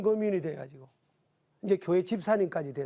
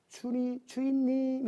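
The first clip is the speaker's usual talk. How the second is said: respectful address; 5 semitones higher, slower than usual. Retold or imitated. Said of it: "이렇게 불렀어요".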